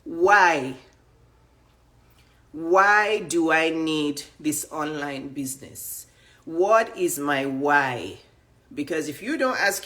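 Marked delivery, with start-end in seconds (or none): 0.0-8.2 slow self-questioning. Pretend. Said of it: "you're going to ask yourself".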